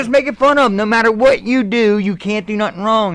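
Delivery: retold hearty encouragement; pep talk. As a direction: egg a nervous friend on. Retelling colleague's pep talk.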